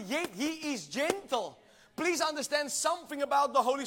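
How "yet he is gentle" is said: slow, soft "Yet he is gentle"; tender, unhurried repeat. Shown as a demonstration. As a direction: ease off and let "gentle" land slowly. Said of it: "I said".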